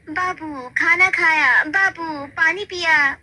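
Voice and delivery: high, slow doting coo; wife's doting voice. Retold or imitated. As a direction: coo it sweetly like a fussing wife. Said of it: "पत्नी का ये बार बार". (पत्नी की दुलार भरी आवाज़)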